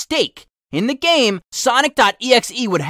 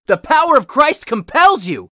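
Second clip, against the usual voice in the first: a determined, raised-voice exorcism line; 6 semitones higher, 4 dB louder than usual. A narrator's reading. Steve driving the demon back, determined. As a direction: push it out with steady conviction. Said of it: "Steve said in determination".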